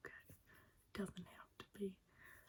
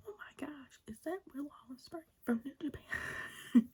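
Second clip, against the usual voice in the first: mock commentator surprise; 5 semitones higher, 3 dB louder than usual. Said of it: "I like when they're like".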